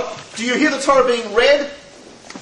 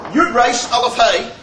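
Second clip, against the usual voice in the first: spelling out letters. Shown as a demonstration. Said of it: "it says".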